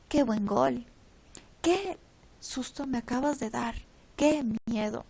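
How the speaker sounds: exclamaciones fuertes con qué marcado; emphatic exclamations. Shown as a demonstration. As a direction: ponle fuerza a cada qué. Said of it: "oración exclamativa o interrogativa". (exclamaciones enfáticas con qué acentuado)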